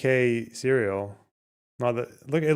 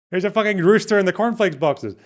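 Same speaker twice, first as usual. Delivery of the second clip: laughing; 7 semitones higher, 7 dB louder than usual. Real, not acted. Laughing at the cereal mascot.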